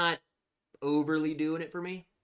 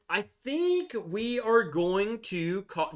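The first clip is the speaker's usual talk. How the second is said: mock announcement; 7 semitones higher, 4 dB louder, slower than usual. Mock announcement before "just kidding.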